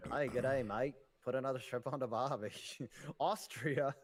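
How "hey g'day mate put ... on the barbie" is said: light mock Australian accent. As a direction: put on a jokey Aussie accent. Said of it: "I will never do that Australian accent again".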